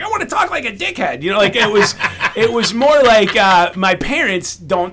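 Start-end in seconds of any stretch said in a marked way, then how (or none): 0.0-1.2 mock wish. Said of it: "I was like".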